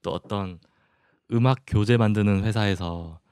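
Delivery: usual speaking voice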